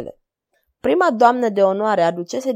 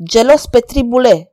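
grumbled; 3 semitones higher, 10 dB louder than usual. A narrator's reading. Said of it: "bombăni".

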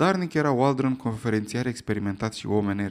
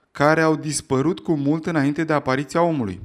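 louder, insistent repeat; raised voice; 2 semitones higher, 5 dB louder than usual. Acted. Lecturer repeats his claim over the heckler, raised voice. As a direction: raise the voice and say it again firmly. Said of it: "ridicând glasul, a repetat".

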